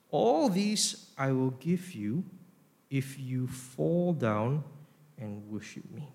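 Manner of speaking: persuasive offer. Acted. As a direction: tempt them slowly, easing down to a hush. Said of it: "the tone this time is very different".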